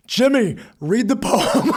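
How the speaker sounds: high, loud imitation of crying; mock tearful plea. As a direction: wail it out, hammed-up, close to laughing. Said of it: "he starts crying already".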